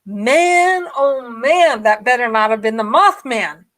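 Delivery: loud, dreading groan; nervous dread. Retold or imitated. Alone on the dark highway, loud nervous dread. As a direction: fear the Mothman's out there. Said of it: "I'm like".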